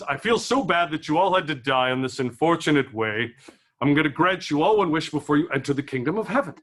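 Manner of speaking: a hint of game-show-host God; lightly announced, like a host granting prizes. God granting wishes to new arrivals, mild game show host voice. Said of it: "God sounds like a game show host".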